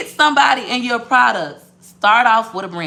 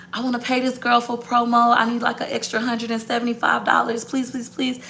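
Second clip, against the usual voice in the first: higher, even-pitched mock begging; retold pleading; 4 semitones higher than usual. Begging partner for money.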